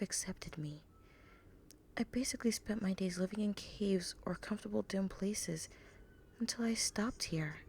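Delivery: soft, rueful, then lifting toward cheer; Ruby, wistful. Acted. Ruby voiced in the story.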